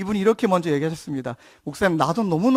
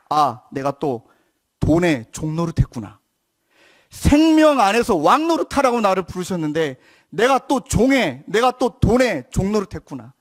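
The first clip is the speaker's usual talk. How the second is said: inner realization; 3 dB louder than usual. Retold or imitated. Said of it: "어떤 마음이 떠올라냐면".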